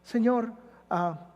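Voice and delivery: a tender prayer to close the sermon; closing prayer. Acted. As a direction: pray over the congregation gently.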